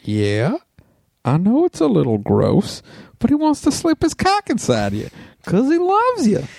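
put-on rising into a high Japanese accent; put-on Japanese accent, climbing high.

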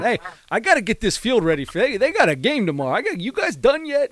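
high-pitched mock hillbilly accent, hollering at the crew. Retired pitcher in disguise yelling at film crew, high hammed-up hillbilly accent. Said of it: "like, hillbilly accent".

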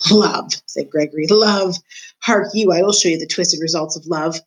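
a lightly voiced, gloating old jailer; a hint of a menacing jailer taunting the mouse; creepy old jailer. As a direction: savour every word like a sly old jailer in the dark. Gregory's voice again.

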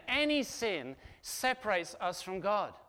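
slow, weight on any; slow and deliberate, landing on any; stress on any. Real, not acted. Preacher repeating his key point, slow with weight on any. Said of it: "let me just say that again".

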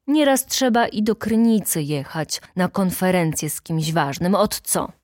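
lightly firm, steady answer. Acted. Stasinek answering the heckler, a touch firm. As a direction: hold your ground with a firmer tone. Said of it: "odparł mocnym głosem".

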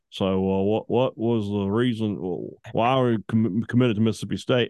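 low, halting mock Grenadian accent; imitated Grenadian accent. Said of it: "two competing accents go at it like this".

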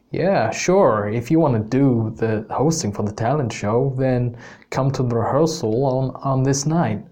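attempted Canadian accent; lightly put-on Canadian accent, easygoing teacher; Mister B. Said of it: "bear with my accent here".

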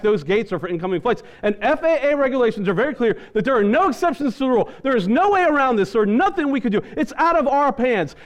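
high, relentless officious tirade; imitated scolding attendant. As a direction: lay down the law to a passenger. Flight attendant's scolding tirade, acted.

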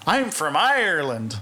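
imitating a hopeless Irish accent; a hint of badly faked Irish accent; failed Irish accent. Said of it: "do an Irish accent".

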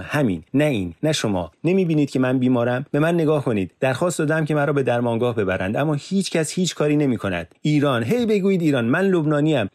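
high, loud desperate complaint; sick prisoner angrily demands help from police; heated protest. Acted. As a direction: plead and rage at once. Yusuf's continued heated protest.

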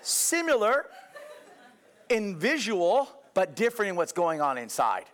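high, laughing through Similar in visual; chuckles while explaining. Real, not acted. Preacher to congregation, laughing off their doubt. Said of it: "No, no, no, I'm serious".

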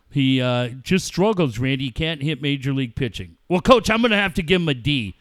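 lightly voiced, measured sports-radio banter; radio report-card hosts. Acts both radio hosts.

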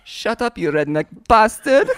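put-on comic European accent sliding towards French; mock French put-down; accent gone French. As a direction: insult him in a wobbly French-German accent. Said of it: "now that went French".

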